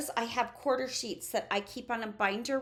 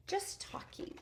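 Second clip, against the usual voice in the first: much softer, hushed repeat; inside talking voice; 10 semitones higher, 10 dB quieter than usual. Shown as a demonstration. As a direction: drop to a soft indoor voice. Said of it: "your inside talking voice".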